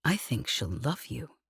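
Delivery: grave. A narrator's reading. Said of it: "said Lev gravely".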